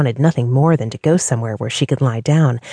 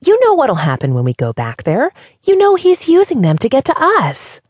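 rising to a much higher, louder cry; angry; 11 semitones higher, 4 dB louder than usual. A narrator's reading. Diana warning Kat it's a trap, angry. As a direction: hammer the warning home in anger. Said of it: "Diana exclaimed angrily".

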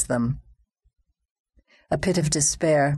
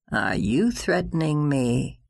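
growled. Acted. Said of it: "he growled".

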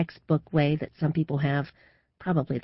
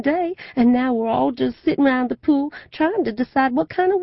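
matter-of-fact Madame Lucille; 10 semitones higher, 7 dB louder than usual. A narrator's reading. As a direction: lay down the law like a fortune-teller queen. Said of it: "don't argue with Madame Lucille voice".

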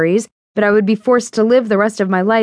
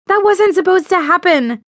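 put-on high, slightly louder girlish voice; startled friend, voice pitched up; Fiona's voice; 12 semitones higher, 4 dB louder than usual. A narrator's reading. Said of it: "I heard Fiona saying".

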